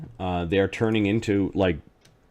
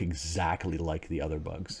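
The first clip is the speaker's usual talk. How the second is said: eating sour candy; 3 semitones lower, 10 dB quieter than usual. Real, not acted. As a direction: mouth full of candy. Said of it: "Stop sticking sour candies in my mouth".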